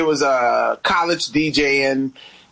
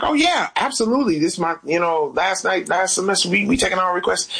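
cheery DJ reply; 4 semitones higher, faster than usual. Retold or imitated. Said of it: "Then I was like".

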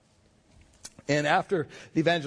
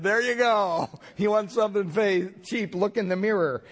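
sassy retort; 6 semitones higher than usual. Retold or imitated. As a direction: hand him the mirror with a zing. Clerk snaps back at customer.

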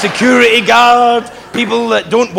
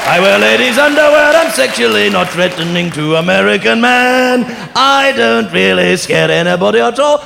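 put-on English accent; 4 semitones higher than usual. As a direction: overdo a camp English accent. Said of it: "worst English accent".

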